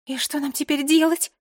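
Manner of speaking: high, small, worried voice; helpless high-pitched question; thin little voice. A narrator's reading. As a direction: ask in a tiny thin voice. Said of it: "спросила Мира тоненьким голосом".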